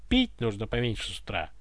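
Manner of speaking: quick, biting advice; the tsar mocks Ivan's hangover; sarcastic. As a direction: sneer the advice. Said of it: "язвительно посоветовал царь".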